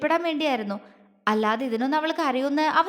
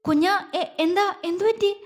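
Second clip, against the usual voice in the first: higher, flustered asking; panicked; 6 semitones higher than usual. A narrator's reading. Husband asks his tearful wife, flustered and higher. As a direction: stumble over the words in alarm. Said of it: "വെപ്രാളത്തോടെ ചോദിച്ചു".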